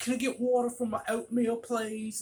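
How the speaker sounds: put-on broad, heavy Southern accent. Retelling a regular customer asking at the register, in a thick Southern accent. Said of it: "He had a thick Southern accent".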